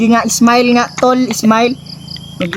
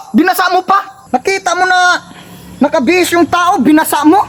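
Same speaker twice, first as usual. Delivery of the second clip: higher, fake-indignant complaining; mock anger; 4 semitones higher than usual. Brother complains he has no other clothes, in mock outrage. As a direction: act wounded and outraged over the wet clothes. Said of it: "Kunyari lang galit ako".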